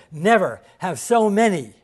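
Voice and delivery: slow it down and lift the volume, like a famous address; quoting Churchill. Retold or imitated. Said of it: "That's when Churchill would say".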